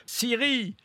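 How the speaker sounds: high-pitched call, then a clear request; talking to Siri. Real, not acted. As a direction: speak up so the phone understands. Addressing voice assistant Siri.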